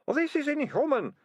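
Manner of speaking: high-pitched screech of protest. Acted. Deputy ratcatcher protesting to his captors, screeched. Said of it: "screeched Ratcatcher Two".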